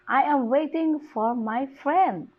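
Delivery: high tune, "friend" lifted then falling; stress on FRIEND. Shown as a demonstration. Teacher repeats the tonic stress example, stress on "friend". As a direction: lift and drop "friend". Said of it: "The stress is on the friend".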